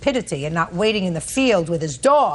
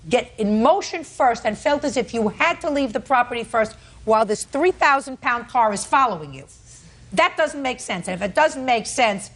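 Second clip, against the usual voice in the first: sarcastic scolding tv judge; 3 semitones higher than usual. Real, not acted. Judge scolds defendant's story.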